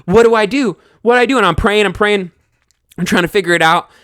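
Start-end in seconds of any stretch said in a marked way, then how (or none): 0.0-1.4 mock panic that climbs; rising panic. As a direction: panic more with each repeat. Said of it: "we're just like".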